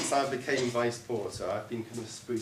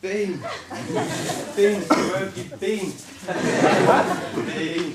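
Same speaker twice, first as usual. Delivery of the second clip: calling out; 8 semitones higher, 11 dB louder, slower than usual. Acted. Calls to lost bean.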